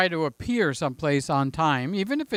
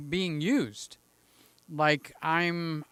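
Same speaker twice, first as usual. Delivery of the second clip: whisper; much slower than usual. Real, not acted. Whispered aside.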